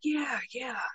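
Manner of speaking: soft whispered agreement; whispered yeah. Real, not acted. Cohost agreeing under the breath, whispering.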